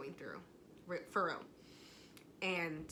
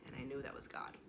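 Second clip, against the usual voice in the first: softer, lower, almost to herself; hushed awe; 5 semitones lower, 7 dB quieter, faster than usual. Real, not acted. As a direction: let it sink in quietly. Repeats the realization twice.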